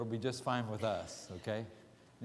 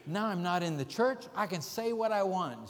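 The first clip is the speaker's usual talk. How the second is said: higher-pitched retold declaration; mild mock rant; 4 semitones higher than usual. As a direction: imitate someone cutting loose, lightly. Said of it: "She started off ranting on something".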